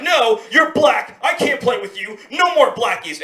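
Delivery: firm refusal, slow emphatic start; forceful. Retold or imitated. Boy refuses to play with his friend, forceful. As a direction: shut them down firmly. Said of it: "He's a little forceful with this one".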